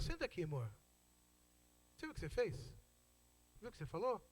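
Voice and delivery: softened voice after the quarrel; gently sit a loved one down to talk; calm, tender reproach. Acted. Husband talking to his wife once the fight is over, calm and tender.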